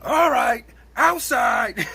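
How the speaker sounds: high, loud mock call to fight, breaking into a laugh; mock challenge. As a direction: challenge him to step outside, laughing. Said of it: "He said".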